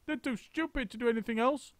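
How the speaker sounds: put-on high, sneering old woman; a nasty old wife's cackling voice; shrill Missus Twit. A narrator's reading. Missus Twit sneering to husband about the monkeys.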